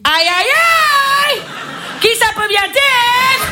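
hammed-up Constantine accent, slow and drawn-out. Porn actress wondering who is at the door, Constantine accent. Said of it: "avec l'accent de Constantine".

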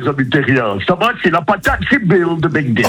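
high, cheery alien game-show mascot; Bill. Shown as a demonstration. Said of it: "vous pouvez parler avec votre voix d'animateur".

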